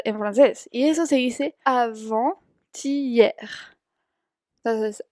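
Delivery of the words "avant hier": slow model word. Shown as a demonstration. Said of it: "teacher models French word".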